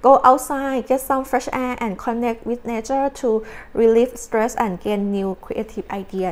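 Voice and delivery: reads the card's English text very slowly and deliberately; measured, drawn-out oracle reading. Acted. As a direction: spell out each word of the card like an oracle. Reading tarot card text aloud.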